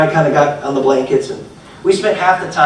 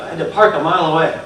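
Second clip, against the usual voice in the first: quick figure of speech; 2 semitones lower, faster than usual. Shown as a demonstration. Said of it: "sometimes we say".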